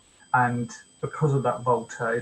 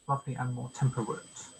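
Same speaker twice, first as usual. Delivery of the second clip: "Lovely and more" as two light syllables leading to "more"; anapest stress. Shown as a demonstration. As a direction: pass lightly over "-ly and", then stress "more". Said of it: "Unstressed, unstressed, stressed".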